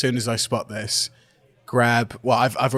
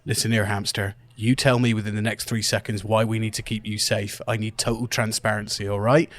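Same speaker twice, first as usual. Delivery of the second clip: stern demand. Acted. Interrogates the hamster sternly.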